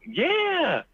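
very high, squeaky mock-lady voice; imitating tickled lady. Lady admits the Klan rumour, imitated in high amusement. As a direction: pitch it way up as her amused reply. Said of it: "she started dying laughing".

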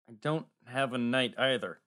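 low, dejected squire; miserable. Acted. Squire confessing to scribe he has no knight, miserable. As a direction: admit it miserably, voice dropped low. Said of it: "Max said miserably".

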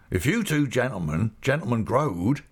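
lightly voiced rustic host; Mister Peggotty, pleased. Host starting over to his guests, mildly rustic and pleased. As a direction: take up the speech in country dialect.

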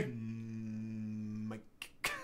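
low, soft put-on Greek accent. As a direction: mumble it in a deep Greek accent. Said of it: "That's the only Greek accent I could do".

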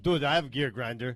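mock Russian accent; comic Russian accent on the edge of laughter; Mishka. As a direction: imitate a friend in broken Russian-accented English. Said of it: "us impersonating him with such, like, a poor English accent".

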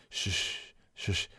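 soft hushed shushing; quiet, comforting shush; soothing shush. Acted. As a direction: gently hush them. Acted hushing and comforting Aaron.

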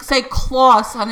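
imitated dad saying "claw" with rounded aw; husband's northern claw. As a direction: coach "claw" in his accent. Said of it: "'Cause he's like".

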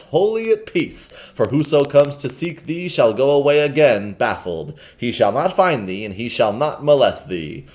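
lightly voiced hermit, building energy; a hint of a fervent hermit, voice rising; hermit's rising sermon. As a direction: preach it with growing zeal, like a mad old monk. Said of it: "with a raised voice and growing energy".

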